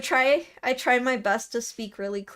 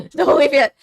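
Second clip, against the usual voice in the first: a much louder call, falling at the end; 3 semitones higher, 11 dB louder than usual. Real, not acted. Streamer calling to leaving viewers, loud call-out. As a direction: stop them at the door with your voice.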